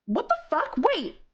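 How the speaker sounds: high, incredulous cry, words stretched out; stunned disbelief. Real, not acted. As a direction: gasp it out in real shock. Discovers a missed five hundred dollar donation.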